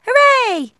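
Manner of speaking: excited cheer. Acted. Child cheering leaving school.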